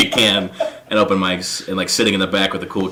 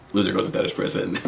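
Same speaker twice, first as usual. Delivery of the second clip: a sly whispered aside; 3 semitones lower, 9 dB quieter than usual. Retold or imitated. Repeating the bet to his friends in a whisper.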